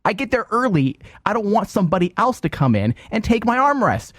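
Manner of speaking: self-mocking. Real, not acted. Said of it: "I'm a dick".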